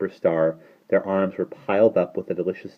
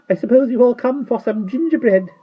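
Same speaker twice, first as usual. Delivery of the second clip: put-on very high, louder little-old-woman voice; tiny old shopkeeper; 8 dB louder than usual. A narrator's reading. Old shopkeeper boasting to the children, high and chatty.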